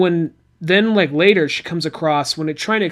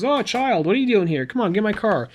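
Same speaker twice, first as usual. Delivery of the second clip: higher-pitched, hint of an old man; lightly voiced old man; 6 semitones higher, faster than usual. Old man finds a child out here, lightly voiced in higher pitch. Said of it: "old man that".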